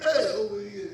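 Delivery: mock Italian. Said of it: "a bit of Italian".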